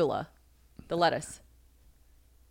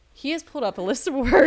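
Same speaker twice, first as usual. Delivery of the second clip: higher, louder, over-enunciated announcing; exaggerated restart; 6 semitones higher, 5 dB louder than usual. Shown as a demonstration. Host restarting her fumbled introduction, hammed-up announcement. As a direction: overdo it after fluffing the line.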